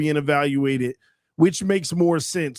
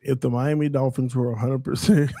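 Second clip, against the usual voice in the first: laughing through it; 3 semitones lower than usual. Real, not acted. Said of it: "I want you to say it with a straight face".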